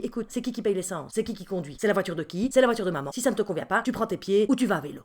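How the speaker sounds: scolding mother. Retold or imitated. Mother scolds son in car.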